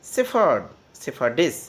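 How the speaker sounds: ordinary talk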